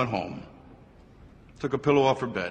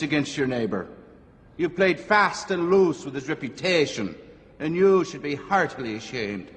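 put-on higher-pitched, scolding Irish-accented priest; attempted Irish accent; 4 semitones higher than usual. Old priest scolding a gossiping woman, attempted Irish accent. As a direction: deliver a rebuke in an imperfect Irish accent. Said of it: "Can't do the Irish accent".

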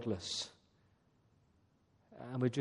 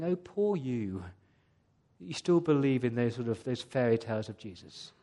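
condescending, patronizing; 3 semitones lower than usual. Retold or imitated. Preacher mimics the media mocking believers, patronizing. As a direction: talk down with fake sympathy. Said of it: "condescending, patronizing".

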